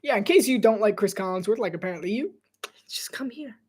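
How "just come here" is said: unvoiced conspiratorial whisper. Real, not acted. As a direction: lean in and whisper it to the chat. Aside inviting viewers to his stream.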